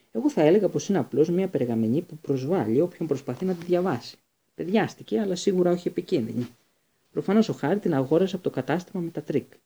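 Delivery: a hint of an easygoing teacher; Lupin, breezy dismissal. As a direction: play it down like it's nothing. Lupin downplaying, voiced higher.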